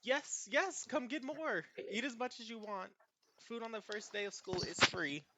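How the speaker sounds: high, bright-eyed cafeteria hobbit voice; very high, eager hobbit server; cheerful lunch lady. Acted. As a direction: sing it out like a delighted little lunch lady. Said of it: "she's like".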